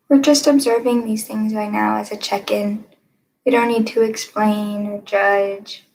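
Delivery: calm guided-meditation delivery, long pauses. Acted. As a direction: guide listeners gently into stillness, leaving room between phrases.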